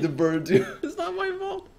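loud laughing through words. Real, not acted. Streamer laughing off the bird scare, loud. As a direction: giggle it out after the fright.

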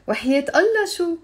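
fast teasing وحياة Allah شو; sarcastic question. Shown as a demonstration. Teacher shows students a fast mocking no. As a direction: rattle it off mockingly. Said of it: "يعني, of course not".

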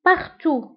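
"Partout" ending on the ou sound, no t; silent final t. Shown as a demonstration. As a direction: say "Partout" with no t at the end. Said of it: "partout نكتبها في الت في آخر الكلمة، ولكن لا ننطقها". (انطق "Partout" بدون نطق حرف t في الآخر)

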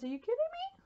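excited squeal, voice breaking; voice cracking. Real, not acted. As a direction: voice cracks up high in delight. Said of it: "Sorry, my voice just cracked".

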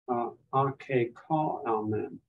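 slow demo of "ake ka amen", the o short like "not"; omicron rhyming with not. Shown as a demonstration. Teacher models Greek for class, slow short-o pronunciation. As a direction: sound out "ka" slowly with a short o, as in "not". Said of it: "purposely trying to pronounce the Omicron".

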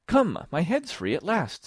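high, loud relief; thrilled, high-pitched little girl; delighted. A narrator's reading. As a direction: exclaim with delight at being free. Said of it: "in a tone of delight".

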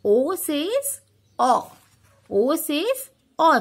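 O says O stretched slowly; slow model phrase. Shown as a demonstration. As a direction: say it slowly, vowel held long.

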